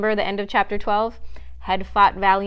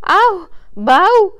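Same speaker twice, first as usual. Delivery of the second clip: loud, high-pitched bleats; deer bleating; 11 semitones higher, 12 dB louder than usual. A narrator's reading. Hysterical Faline before the stag, loud bleating. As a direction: bleat out each sound like a panicked fawn. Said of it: "bleating again".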